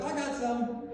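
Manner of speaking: dad's excited call-out, lightly imitated; excited yell. Dad splashed with holy water at bedside, excited yell. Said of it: "my dad yells out".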